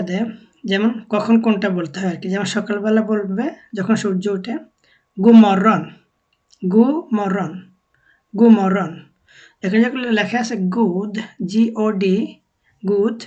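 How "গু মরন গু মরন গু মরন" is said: গু মরন with the D of "god" dropped; spoken Swedish form. Shown as a demonstration. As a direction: say গু মরন as "goo morron", no D. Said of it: "কিন্তু বলার সময় আর কি". (গু মরন, ড ধ্বনি বাদ দিয়ে)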